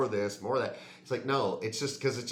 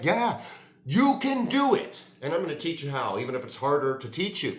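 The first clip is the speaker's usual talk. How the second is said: encouraging parent; 4 dB louder than usual. Retold or imitated. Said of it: "Their parents never were like".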